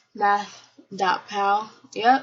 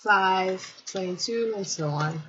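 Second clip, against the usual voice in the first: chewing while talking; 4 dB quieter, slower than usual. Real, not acted. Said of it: "Sorry for my chewing".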